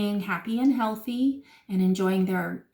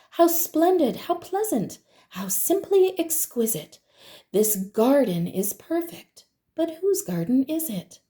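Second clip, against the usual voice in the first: delighted exclamation; 5 semitones higher than usual. Acted. Mrs McGee admiring the garden.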